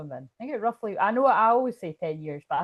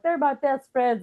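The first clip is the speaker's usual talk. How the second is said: higher, slow insistence; insistent; 7 semitones higher, 3 dB louder than usual. Retold or imitated. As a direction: insist on every word. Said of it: "And I'm like".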